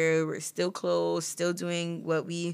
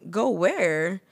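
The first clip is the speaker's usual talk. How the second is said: surprised protest; 3 semitones higher, 6 dB louder than usual. Retold or imitated. Friend getting up to leave after a month, surprised loud protest. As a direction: plead with her not to leave yet. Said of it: "And I was like".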